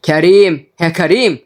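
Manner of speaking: angry calling. Acted. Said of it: "وبدأ ينده عليه بكل غضب".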